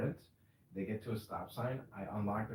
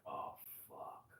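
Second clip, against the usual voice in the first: mock panic; 5 semitones lower, 10 dB quieter than usual. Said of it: "you're like".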